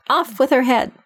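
high, shrill-free royal yell; shouting queen. A narrator's reading. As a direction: scream the sentence, furious. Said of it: "and shouting".

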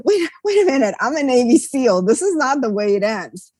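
sudden resolve. Retold or imitated. Navy seal rallies himself.

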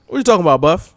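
a hint of a brash taunt; mock Ernest Miller. Ernest Miller taunting the fallen Buff, lightly voiced. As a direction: toss the catchphrase at Buff. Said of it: "That's Ernest Miller's line".

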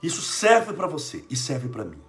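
ordinary talk, nothing marked

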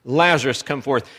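retold command, loud on the name; authoritative anger. Preacher voicing Jesus calling Lazarus out, mildly angry authority. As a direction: call out the name firmly, then settle. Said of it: "a voice of authority and anger".

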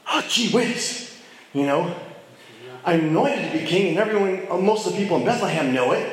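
lightly voiced young David marvelling; David's inner voice. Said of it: "what's going through David's mind".

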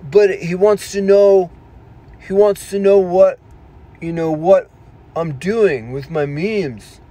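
high, slow, loud whiny protest; mock earnest self-defence; naive protest. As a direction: plead innocently like a gullible kid. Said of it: "And I'm like, But".

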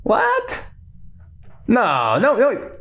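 high, startled mock Lupin voice; imitating Lupin. Lupin caught out by Harry, high startled mock voice. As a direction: squeak it out like a flustered mentor. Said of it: "Lupin would be like".

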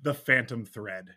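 courtroom lawyer. Acted. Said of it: "Ladies and gentlemen of the jury".

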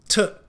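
t 和 own 分开念清楚; 把 t 和 own 每部分都发出来; split town. Shown as a demonstration. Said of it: "字的每一个部分都要记得发出来". (拆音示范 t，own)

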